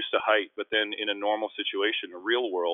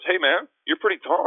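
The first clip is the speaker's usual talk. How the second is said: put-on higher, louder little boy; lightly voiced young boy; kid's voice; 10 semitones higher, 7 dB louder than usual. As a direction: chirp it like a curious kid. Young kid at pool quoted.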